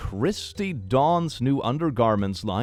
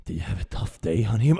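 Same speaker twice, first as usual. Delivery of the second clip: whispered asmr role play; 3 semitones lower than usual. Pretend. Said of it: "one of those A S M R roleplay videos".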